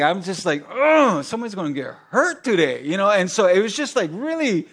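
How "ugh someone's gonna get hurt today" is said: seething inside. Retold or imitated. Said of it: "I'm seething".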